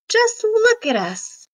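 high, bragging crocodile boast; a boastful croc showing off his family. Acted.

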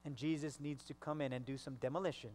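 ordinary delivery

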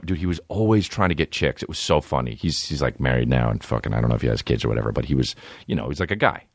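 ordinary talk, nothing marked

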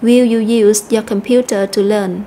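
slow model question stressing "use", "computer", "learn"; weight on "use", "computer" and "learn", spoken slowly; sentence stress. Shown as a demonstration. Teacher reads the example question aloud, stressed content words. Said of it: "chúng ta cũng nhấn mạnh vào âm tiết".

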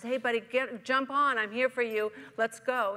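loud urgent call from above. Acted. Helicopter rescuer shouting down to the man on the roof, loud. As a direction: holler down to hurry him up.

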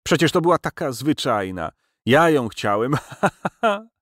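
hysterical laughter. A narrator's reading. Professor keeps laughing hysterically.

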